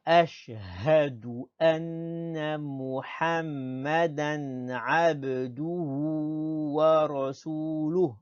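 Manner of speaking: slow, chant-like Arabic, vowels held; slow model recitation. Shown as a demonstration. Teacher leading pupils through the second part, slow recitation. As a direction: recite it in one smooth, measured line.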